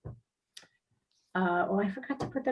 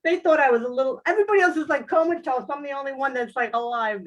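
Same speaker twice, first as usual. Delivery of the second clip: high, loud, laughing throughout; 4 semitones higher, 4 dB louder than usual. Real, not acted. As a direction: giggle through the whole story. Laughing while telling the story.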